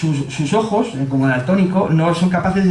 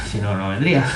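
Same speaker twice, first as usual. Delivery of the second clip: usual speaking voice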